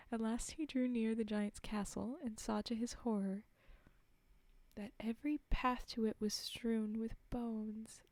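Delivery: measured fairy-tale reading voice; clearly projected storytelling; story narration. A narrator's reading. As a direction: read it aloud like a storybook. Reads a fairy tale aloud.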